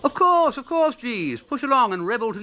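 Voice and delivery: high, loud eager agreement. Acted. Bertie eagerly agreeing to Jeeves's request. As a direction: jump in with eager consent.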